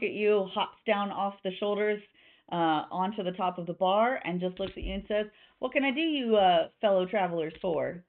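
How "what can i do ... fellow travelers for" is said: lightly Southern barkeep; a touch of friendly Southern twang; Southern accent. Acted. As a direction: welcome travelers with a slight Southern accent. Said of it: "I don't know why she's slightly Southern".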